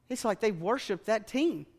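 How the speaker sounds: normal talking voice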